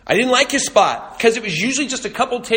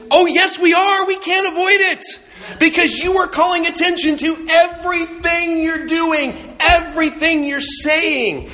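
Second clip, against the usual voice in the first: mock retort, laughing; 10 semitones higher than usual. Pastor answering Skype guy in his head, laughing. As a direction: fire back half-laughing at the oblivious guy.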